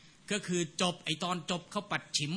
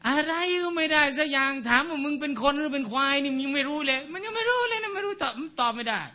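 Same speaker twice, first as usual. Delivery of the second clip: exasperated; 8 semitones higher, 3 dB louder than usual. Real, not acted. Teacher mocks a clueless student.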